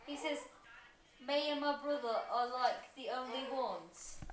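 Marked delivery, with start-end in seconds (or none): 1.2-4.2 unconvincing attempt at a British accent; amateur British accent impression; put-on British accent. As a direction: read it in a shaky-quality fake British accent. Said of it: "You're not doing the accent that great".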